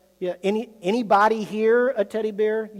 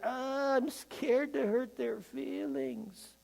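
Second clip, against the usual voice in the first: fearful thought; 5 semitones higher, 11 dB quieter than usual. Retold or imitated. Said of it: "out of self-protecting fear".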